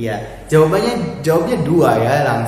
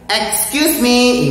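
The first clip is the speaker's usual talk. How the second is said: higher, slow polite excuse me; 8 semitones higher, much slower than usual. Shown as a demonstration. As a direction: ask politely, drawn out. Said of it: "ingat ketika kita bertanya".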